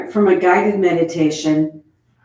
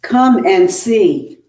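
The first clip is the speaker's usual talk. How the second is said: slow, louder call to come; Mary Magdalene calling, slow and raised; 4 dB louder, much slower than usual. Acted. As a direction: beckon them from afar, drawn out. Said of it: "Here's Mary Magdalene".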